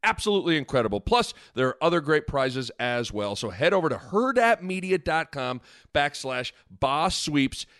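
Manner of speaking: upbeat sponsor read. Acted. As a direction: read it like a radio ad. Ad read inside podcast.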